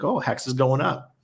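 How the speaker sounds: lightly voiced young boy, rising at the end; a child's eager call-out; a hint of a kid watching the chart climb; imitating his son. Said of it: "He's like".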